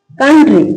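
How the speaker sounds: "कंट्री" said with the O silent. Shown as a demonstration. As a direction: show how "कंट्री" is read, no O sound. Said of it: "क्या पढ़ते हैं इसको".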